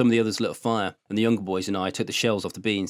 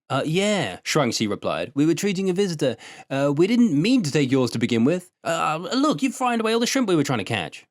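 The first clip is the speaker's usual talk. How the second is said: put-on sheepish boy; 6 semitones higher than usual. Boy caught, making excuses.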